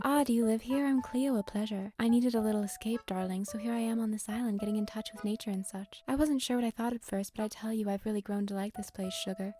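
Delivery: a hint of a sassy cartoon housewife; Lois Griffin voice. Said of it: "My best Lois Griffin impression".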